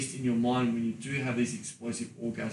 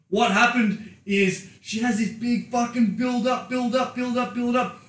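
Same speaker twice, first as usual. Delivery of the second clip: building hype; 10 semitones higher, 6 dB louder than usual. Acted. Hyping up the orgasm build.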